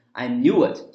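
slow "knew it" linked by a W glide; linked pronunciation. Shown as a demonstration. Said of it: "加一个W这个半元音的发音". (慢速连读“knew it”，中间加W音)

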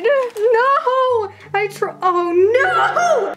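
high dismayed wail with a laugh; mock wail. Real, not acted. Glitter spills on her floor, a mock despairing wail.

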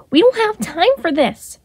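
Remus in a high put-on voice, urgent. A narrator's reading. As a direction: voice a wild Remus, high and impatient.

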